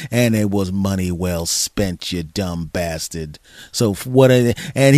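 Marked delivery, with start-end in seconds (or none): 0.1-3.4 slow, sinking gloat; mock-cruel father sneer; smug dad taunt. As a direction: savor the insult like a mean dad.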